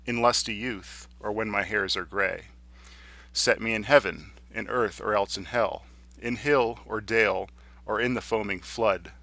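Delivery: measured sonnet reading with pauses at line ends; formal, paced verse reading; poetry recitation. Acted.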